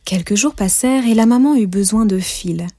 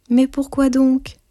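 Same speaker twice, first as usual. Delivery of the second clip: high, slow puzzled question; astonished little girl asking why; surprised; 6 semitones higher, slower than usual. Acted. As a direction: ask it wide-eyed and slow. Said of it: "s'étonna Neige Blanche".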